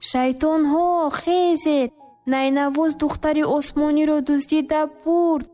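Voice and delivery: a mild read-aloud shout of alarm; devil shouting. Acted. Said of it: "шайтон бедор шуду фарёд зад".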